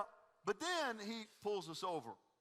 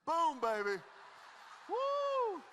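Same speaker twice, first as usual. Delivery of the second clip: loud, high victory whoop; triumphant whoop; 8 semitones higher, 4 dB louder, much slower than usual. Real, not acted. Pastor whooping to the congregation over his photo, triumphant whoop. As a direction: celebrate like you just dunked.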